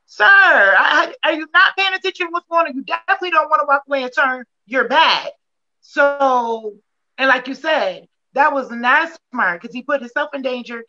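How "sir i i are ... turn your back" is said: higher, fast, incredulous scolding; exasperated. Retold or imitated. Mom reacting to the video, exasperated and fast. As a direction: scold him in disbelief, quick and high. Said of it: "I'm like".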